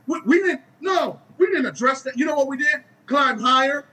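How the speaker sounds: we didn't address that, shouted out to the crowd; emphatic shout. Real, not acted. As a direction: drive the point home with a shout. Preacher hammers point to team.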